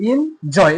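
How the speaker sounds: এনজয় slowly split, weight on জয়; stress on জয়. Shown as a demonstration. Teacher showing pupils the stressed part, stress on জয় in এনজয়. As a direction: say এনজয় in two parts, pressing জয়. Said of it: "জয়ের ক্ষেত্রে কিন্তু আমাদের stress".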